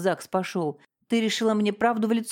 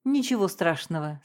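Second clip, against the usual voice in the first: ordinary delivery, nothing marked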